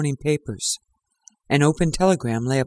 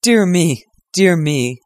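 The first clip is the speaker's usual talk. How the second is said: louder, bursting through held-in laughter; suppressed laughter; 6 dB louder, slower than usual. Acted. Holmes barely holding in laughter at Lestrade. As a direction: hold back a fit of laughter, mildly. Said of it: "restrain a convulsive attack of laughter".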